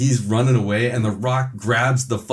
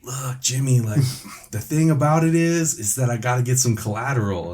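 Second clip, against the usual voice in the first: amused; 5 semitones higher than usual. Retold or imitated. Voicing the Rock, laughing mid-line.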